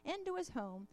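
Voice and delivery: storybook read-aloud with lightly voiced animals; reading a children's story. A narrator's reading. Reads children's tale in sermon.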